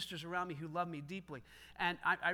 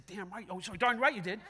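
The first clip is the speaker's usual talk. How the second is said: sarcastic jab; 4 dB louder than usual. Retold or imitated. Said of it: "Now, I didn't say".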